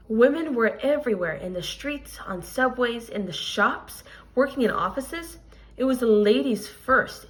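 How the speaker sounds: expressive picture-book reading to a class; reading aloud to children. Acted. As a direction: read the story to the kids, clear and lively. Teacher reads picture book aloud.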